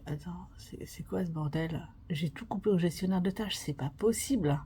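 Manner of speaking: quietly thrown, talking to yourself; retold disbelief. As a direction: mutter in mock disbelief to yourself. Retelling stunned self-talk during exam crash.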